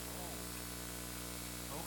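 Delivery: breathy whispered oh, giving in; resigned whisper. Retold or imitated. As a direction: sigh it out like you've given up. Resigned reply to God.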